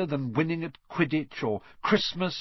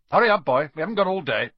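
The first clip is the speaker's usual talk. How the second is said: much louder impatient bark; gruff Uncle Vernon; 4 semitones higher, 7 dB louder, much faster than usual. A narrator's reading. Uncle Vernon orders Harry away, loud and impatient. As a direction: bark at the boy to hurry.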